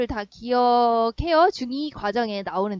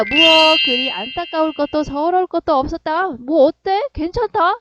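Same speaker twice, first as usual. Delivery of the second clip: loud, raised-pitch show of not caring; feigned indifference; 4 semitones higher, 7 dB louder than usual. Acted. Boy hiding shock at a parting, feigned indifference. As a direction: insist it's fine, a little too loudly. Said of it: "겉으로 표현은 어떻게 표현한 거야".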